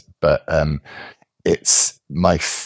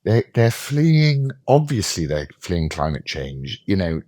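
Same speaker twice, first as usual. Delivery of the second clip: mock woke commentator; 3 semitones higher than usual. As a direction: parody a sanctimonious progressive, hammed up. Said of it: "Think of this".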